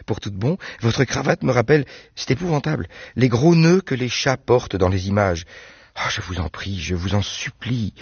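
put-on a bright girl chatting about her doves; Anne's voice. Anne laughs at his tie.

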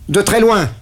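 high loud cry; hurled answer; yell. Acted. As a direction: shout it out in distress. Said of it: "hurlai-je".

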